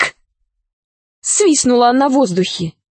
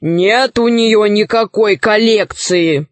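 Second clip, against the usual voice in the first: a hint of a gloomy bass; 3 semitones lower than usual. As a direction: grumble it slow and gloomy. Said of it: "сказал мрачный бас".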